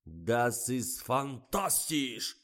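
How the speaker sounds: slow, loud, high cry of delight; delighted yell. A narrator's reading. Delighted director bursts into the studio, yelling with pleasure. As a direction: bellow your approval, drawing it out. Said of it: "заорал страшно довольный Николай".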